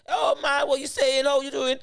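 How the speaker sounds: loud, high imitation of a black London accent, half shouted; mock black London accent. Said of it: "that was just a black accent".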